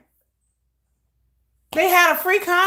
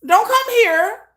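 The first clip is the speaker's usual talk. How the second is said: mock American voice; 8 semitones higher, 3 dB louder, slower than usual. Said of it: "everybody in America is like".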